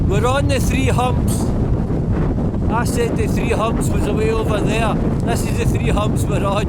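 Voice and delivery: high, strained shout into the wind; shouting over wind. Real, not acted. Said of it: "If you can hear me over the wind".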